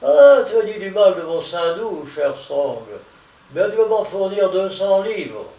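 high, loud, mocking taunt; sneering gloat. Limerick to Strong dying in the lard, loud gloating sneer. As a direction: taunt him triumphantly. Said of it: "en ricanant".

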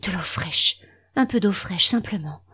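faint, breathy whisper of a fading woman; dying voice. Acted. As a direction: barely breathe the words out. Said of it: "Elle souffle d'une voix mourante".

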